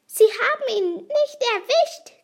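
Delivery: high, loud, gleeful creature; high-pitched gloating; giggly character voice. A narrator's reading. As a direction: crow it with amusement. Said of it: "kicherte Fliegenbart".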